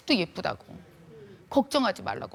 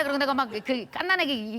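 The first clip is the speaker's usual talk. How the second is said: usual speaking voice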